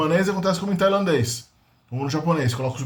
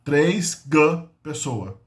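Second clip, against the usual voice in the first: slow gloss; much slower than usual. Shown as a demonstration. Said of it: "Seria três indivíduos de pessoa".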